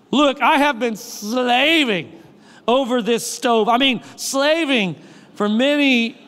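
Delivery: drawn-out, self-pitying complaint; milk every word like a martyr; whiny exaggerating son. Pastor mocks the older brother's complaint, whiny and dragged out. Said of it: "when somebody is exaggerating their story".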